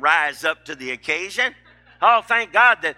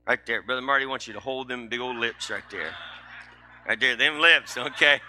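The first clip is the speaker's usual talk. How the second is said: Brother Marty voice; 5 semitones lower, 3 dB quieter than usual. Acted. Preacher voices Brother Marty persona.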